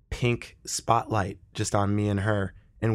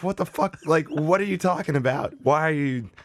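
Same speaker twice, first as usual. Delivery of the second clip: mock baffled lady; 4 semitones higher than usual. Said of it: "she looks at me like".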